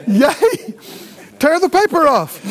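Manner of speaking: high, loud gleeful cheering; childlike glee. Retold or imitated. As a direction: cheer like a kid tearing open presents. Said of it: "You go".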